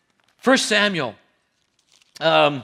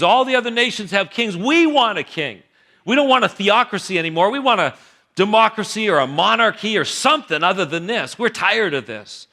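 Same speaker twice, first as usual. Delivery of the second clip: complaining, insistent people, pitched up; the people pushing Samuel for a king; demanding crowd. Acted. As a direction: whine that you're done with God as boss.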